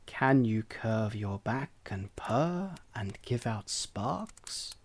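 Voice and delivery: low, slow, smug cat. Acted. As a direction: purr the question down at him. Cat questions duckling.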